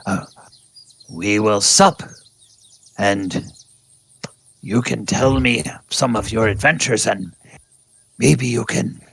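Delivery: put-on a beaten old hunter who stays dignified and turns hospitable; defeated old tabaxi hunter. DM voices the bound tabaxi hunter inviting the party to his den, grand old hunter voice. Tabaxi impressed, asks for help.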